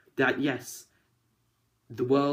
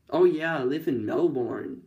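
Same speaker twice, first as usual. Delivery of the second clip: mock American accent; 2 semitones higher than usual. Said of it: "I nailed the accent there".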